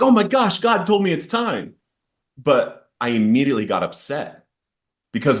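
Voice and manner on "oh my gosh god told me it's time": much higher, bright gush of pretend joy; mock excitement. Imagined reaction to hearing from God, mock excited. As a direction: play the thrilled version he didn't feel. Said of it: "you would think that I would be all excited".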